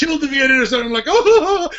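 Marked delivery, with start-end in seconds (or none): 1.1-1.7 high, laughing wail; hammed-up heartbroken cry; mock anguish. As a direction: moan in exaggerated dismay. Retold grief at car destroyed.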